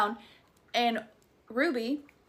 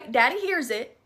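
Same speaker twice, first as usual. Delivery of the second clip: a Southern accent slipping out; slipped into Southern. Real, not acted. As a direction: say it with a Southern twang. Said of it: "Ew, that was so Southern".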